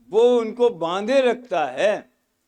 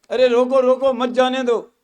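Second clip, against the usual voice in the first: higher, urgent mock call to stop; रोकने की पुकार; 3 semitones higher than usual. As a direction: call out as if halting someone. Acted call to stop someone. (रोकने की ऊँची नकली पुकार)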